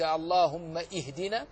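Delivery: اهدنا with a sounded hamza after اللهم; wrong hamza. Shown as a demonstration. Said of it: "جهلا منك".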